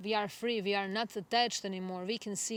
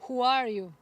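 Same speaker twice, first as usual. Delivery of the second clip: echoed shout; 3 semitones higher, 7 dB louder than usual. Retold or imitated. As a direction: shout it back like the mountain's echo. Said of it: "the answer he received was".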